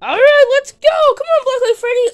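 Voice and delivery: high, loud, stretched call; rallying call. Pretend. Calling Black Light Freddy along, rallying call. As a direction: call out high to get moving. Calling companion to get going.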